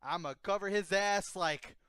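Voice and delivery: mock Southern Michael Scott. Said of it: "he's like".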